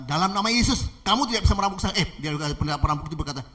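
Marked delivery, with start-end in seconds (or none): 0.0-1.9 forceful command. Acted. Pastor rebuking the robber in Jesus' name, forceful. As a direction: declare it firmly at raised volume.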